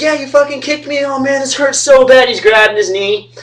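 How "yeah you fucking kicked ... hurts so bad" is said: imitating a friend in pain. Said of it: "He's like".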